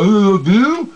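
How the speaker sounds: shrill demand hammed up; don't-do-this example shout; mock whiny shout. Shown as a demonstration. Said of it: "Don't go".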